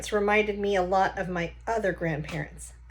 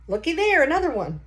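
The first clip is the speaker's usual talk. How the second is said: put-on higher, louder folksy old grandpa; old Gramps voice; 8 semitones higher, 6 dB louder than usual. Grandpa poking at a stranger's engine, confident folksy voice. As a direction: play the know-it-all grandpa tinkering.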